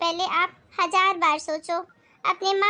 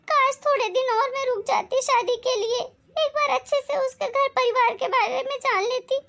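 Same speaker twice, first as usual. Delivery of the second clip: put-on higher, pleading young woman; lightly voiced remorseful daughter; distressed daughter; 5 semitones higher than usual. Daughter tells her mother how she escaped, distressed.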